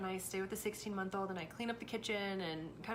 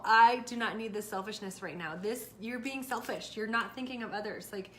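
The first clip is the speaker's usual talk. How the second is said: lecture; 4 dB louder than usual. Retold or imitated. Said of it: "I launched into this whole".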